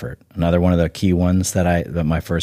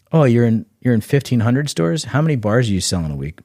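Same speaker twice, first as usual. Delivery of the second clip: higher, sceptical buyer; mock buyer voice; 5 semitones higher than usual. Buyer sizing up a brand's store count, higher and sceptical. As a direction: ask it like a buyer who's heard it all.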